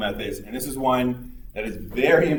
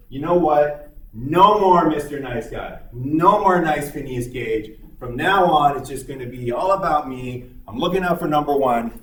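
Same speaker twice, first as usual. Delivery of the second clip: mock defiant vow; 2 semitones higher, 3 dB louder than usual. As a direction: announce the new tough self, half in jest. Gage vows to change.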